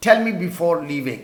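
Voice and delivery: very slow, word by word; slow dictation. Shown as a demonstration. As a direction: dictate slowly for the class. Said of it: "یعنی مجھے بتا کر جانا".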